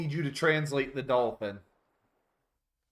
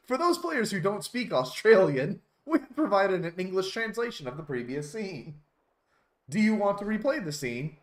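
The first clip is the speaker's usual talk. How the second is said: higher, projected announcer read; game notice read-out; 8 semitones higher, 4 dB louder than usual. Acted. Player reading translation notice aloud, announcer style.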